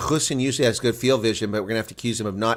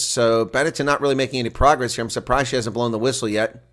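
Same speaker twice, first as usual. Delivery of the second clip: usual speaking voice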